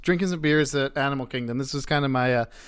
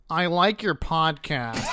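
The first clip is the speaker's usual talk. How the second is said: slow fan line; slower than usual. Retold or imitated. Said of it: "and he goes".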